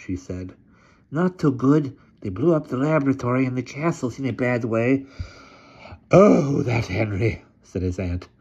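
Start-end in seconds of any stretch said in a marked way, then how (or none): 1.1-5.1 hunchback assistant. A narrator's reading. 6.1-7.4 put-on slow, loud, imperious old lady. A narrator's reading.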